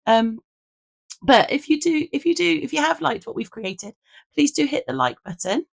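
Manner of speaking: hoarse, croaky voice from a lost voice. Real, not acted. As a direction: speak through a lost, croaky voice. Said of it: "I lost my voice".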